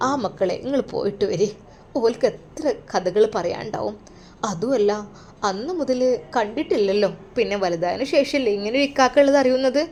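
put-on quietly overjoyed old father; tearful happy old father. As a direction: speak like a frail father near tears of joy. Father sends children off.

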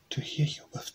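hushed sly wolf's reply; breathy disguised wolf; wolf as Granny. Acted. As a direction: whisper it like a wolf hiding in Granny's bed.

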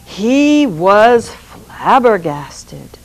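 slow whispered flabbergasted; whispered astonishment. A narrator's reading. Narrator whispering the Sultan's shock. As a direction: breathe it out in disbelief.

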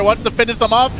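high, loud hype call; excited shout. Real, not acted. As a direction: scream the finishing moment. Caster calls the game-ending fight.

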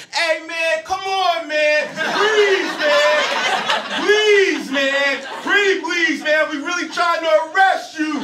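high, strained begging voice, shouting; pleading cop. Retold or imitated. Tired cop pleading with fleeing man, high begging shout. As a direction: beg the runner to stop like a desperate cop. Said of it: "he yelled out".

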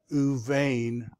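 "Uvain" with V in place of B; measured "Uvain", clear V opening second syllable; V sound. Shown as a demonstration. Teacher repeating the word for students, V sound in "Uvain". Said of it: "I said the V sound".

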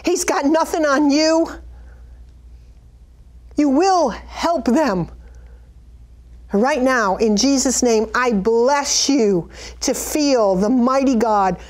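fervent prayer, rising toward the end; earnest prayer. Acted. Preacher praying aloud for a struggling friend, fervent. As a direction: pray over them with conviction. Prays over the listener.

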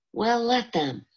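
a high, defiant snap; angry defiance. Acted. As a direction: throw it back at her in anger. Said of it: "said Frankie angrily".

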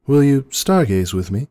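a high, fretful princess voice; Luna's worried voice. A narrator's reading. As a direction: ask with anxious care. Luna voiced in story.

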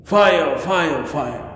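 mock cry for help, high at first, then fading; mock scream. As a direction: call out a retold alarm, dropping away each time. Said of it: "he started screaming".

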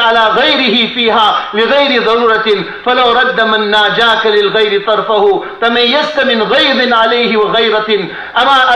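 rapid chanted Arabic verse; poem recitation. Acted. Preacher reciting poetry to the congregation, rapid chant. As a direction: recite the verse fast, in one breath.

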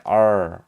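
loud R with the tongue curled back; American R. Shown as a demonstration. Teacher showing the word's American ending, emphatic R. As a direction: sound out R strongly, tongue rolled. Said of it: "R이 이렇게 혀를 이렇게 말아서".

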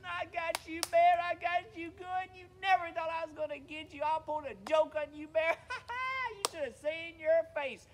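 high, gloating taunts broken by cackles; laughing. Acted. Rabbit on the ground mocking Bear's prank mishap, laughing. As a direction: crow at your victim through laughter. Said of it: "He was laughing".

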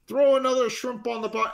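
put-on hamming up an Australian accent for his daughter; mock Australian accent. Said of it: "they kinda talk like this".

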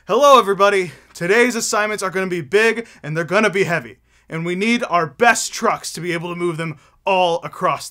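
loud, booming call to the whole yard; boss's loud announcement. Acted. Boss calling all the trucks together, loud announcement.

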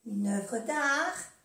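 "Une œuvre d'art" muy despacio, sílaba a sílaba; despacio, para que lo repitan; lento y claro. Shown as a demonstration. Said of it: "ejemplo lento". ("Une œuvre d'art" dicho muy lento para la clase)

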